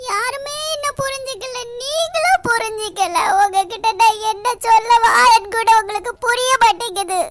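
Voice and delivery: upset outburst. Acted. Bride's frustrated outburst.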